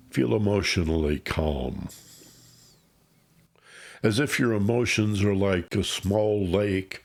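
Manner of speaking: unhurried meditation guide with long pauses; guided meditation. Acted. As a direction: ease the listener into calm, phrase by phrase. Leads a grounding meditation.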